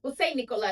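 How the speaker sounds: Nicola said nee-KOH-lah with Spanish vowels; Spanish-style Nicola. Shown as a demonstration. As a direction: give Nicola a Latin flavor. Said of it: "to add some, you know, sazon".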